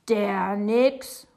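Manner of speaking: loud, incredulous outburst; outraged exclamation. A narrator's reading. Father hearing of the Nix, exclaiming loudly. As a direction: exclaim it in disbelief. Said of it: "ruft Papa und dabei wird sein Gesicht ganz rot".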